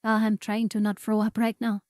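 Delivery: choking on swallowed apple; strained after swallowing wrong. Real, not acted. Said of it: "I think I swallowed the apple wrong".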